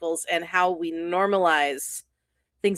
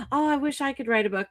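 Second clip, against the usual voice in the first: wistful mock fan; 4 semitones higher, 3 dB quieter, faster than usual.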